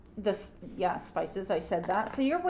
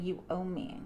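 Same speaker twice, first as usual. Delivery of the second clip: voicing the queen; 3 semitones lower, 8 dB quieter than usual. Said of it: "her face is saying".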